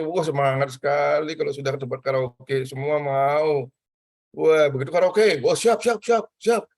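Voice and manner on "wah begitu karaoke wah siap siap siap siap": mock-excited kids shouting ready; playful imitation of eager kids. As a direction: act out kids keen for karaoke, voice jumping up.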